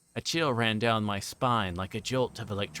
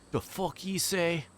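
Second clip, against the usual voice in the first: thug snarl; 7 semitones higher, slower than usual. Acted.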